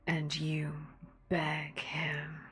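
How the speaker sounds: menacing whisper. Acted. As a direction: breathe the order coldly.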